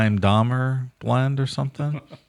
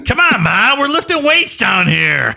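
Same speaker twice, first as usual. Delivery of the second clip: higher, louder mock teen reply; whiny son; 10 semitones higher, 4 dB louder than usual. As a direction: answer mom like a guilty kid. Playing Jeffy answering.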